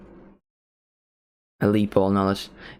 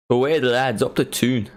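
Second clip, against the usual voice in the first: badly faked Geordie accent; attempted Geordie accent; 3 semitones higher than usual. Football fan cheering on Newcastle, half-hearted Geordie accent. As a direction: have a clumsy go at a Geordie accent. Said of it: "I can't do that accent".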